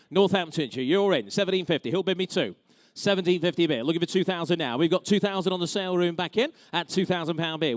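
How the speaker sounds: brisk auction bid calling; auctioneer. Real, not acted. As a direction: rattle off the bids like an auctioneer.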